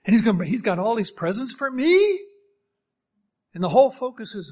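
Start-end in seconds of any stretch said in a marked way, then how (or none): 0.0-2.2 acted wide-eyed excitement, higher; eager kid's disbelief, pitched up; excited child. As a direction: marvel like a thrilled child, rising at the end. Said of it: "that's exciting to you".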